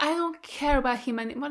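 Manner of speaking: unvoiced whispered dismissal. Whispering to the camera about Riley. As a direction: breathe it out, barely voiced. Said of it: "made me just so angry at Riley that I'm like".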